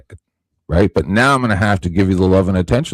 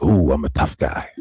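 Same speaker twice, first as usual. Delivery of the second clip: mock tough guy; 9 semitones lower, 4 dB quieter than usual. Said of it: "the guy's like".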